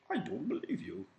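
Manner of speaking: mock sassy retort; defiant Eve. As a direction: toss it back like a defiant girl. Eve defying God.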